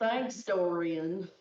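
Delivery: slow drawling cowboy twang on Thanks, Dorian; hammed-up Old West drawl; Western accent. Shown as a demonstration. Streamer thanking donor Dorian in a bad Western accent. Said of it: "Western accent, here we go".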